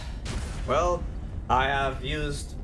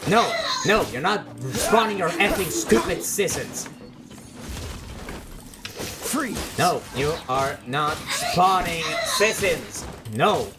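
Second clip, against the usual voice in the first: angry yelling; 3 semitones higher than usual. Real, not acted. Raging at Sisson spawns.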